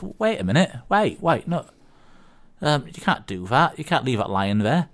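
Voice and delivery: mock alarm, pitch jumping up on the protests; protesting landlord. Landlord calling after a drunk customer, lightly acted protest. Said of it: "landlord goes".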